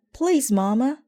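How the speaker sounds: high, loud pleading cry; shouted plea. Acted. Brother shouting at Mama to start the car, high and loud. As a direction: beg Mama loudly to hurry. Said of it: "shouted Brother".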